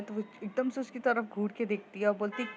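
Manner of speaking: usual speaking voice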